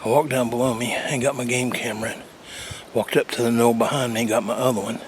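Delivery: winded, breathing hard between words; out of breath after the walk. Real, not acted. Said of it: "sorry I'm out of breath".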